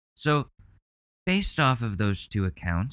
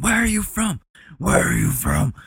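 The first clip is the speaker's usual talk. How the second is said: higher mocking parrot of the cop-like question; mocking the interrogator; 11 semitones higher, 4 dB louder than usual. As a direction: mimic the pushy questioner, lightly. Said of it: "quoting the man in the clip".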